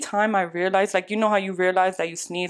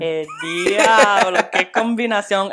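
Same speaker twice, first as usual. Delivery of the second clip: laughing exclaim; 3 dB louder, slower than usual. Real, not acted. Shocked reaction, Spanish exclaim.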